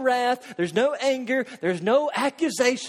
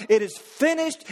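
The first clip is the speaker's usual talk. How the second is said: cried out; 5 semitones higher than usual. Retold or imitated. Preacher voicing Christ on the cross, crying it out. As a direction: lift it into a ringing cry. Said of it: "Christ cried out".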